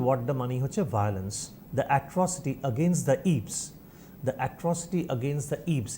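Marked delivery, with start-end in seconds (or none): 1.8-3.5 slow, spaced-out dictation. Shown as a demonstration. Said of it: "repeated for dictation". 4.3-5.9 slower, softer dictation repeat; slow, quieter repeat. Shown as a demonstration. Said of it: "repeated for dictation".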